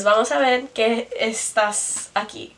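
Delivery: measured repeat of the phrase in a bad Spanish accent. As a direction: read back the Spanish steadily, still clumsy. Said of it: "in a really bad accent".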